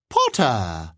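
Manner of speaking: ridiculous attempt at an English accent; mock English accent. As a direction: badly fake an English accent to tease. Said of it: "fairly ridiculous attempt at an English accent".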